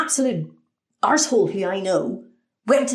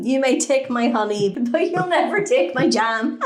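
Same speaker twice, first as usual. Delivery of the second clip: mock Braveheart defiance; 3 semitones higher than usual.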